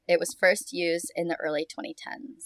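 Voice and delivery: hushed whisper. Real, not acted. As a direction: whisper it like a secret. Whispered aside about slang.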